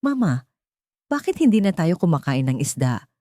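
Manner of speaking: put-on a small child asking her mother a simple question; innocent child asking. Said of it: "inosente siyang nagtatanong".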